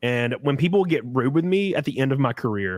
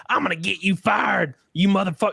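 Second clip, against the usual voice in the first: lightly acted angry threat, pitched up; raised-pitch retold outburst; mock irate customer; 5 semitones higher than usual. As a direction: imitate an outraged old lady customer. Acts out irate old customer.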